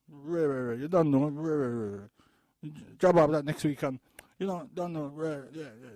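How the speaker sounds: high, loud hammed-up party chatter; mocking party talk. Speaker mocking fathers who only want party talk, high and loud. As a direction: parody the careless dads' hype. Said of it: "They only wanna hear".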